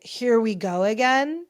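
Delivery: mock weary irritation; irritated, imitated. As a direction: retell his exasperation, lightly acted. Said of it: "very irritated, not even really amused".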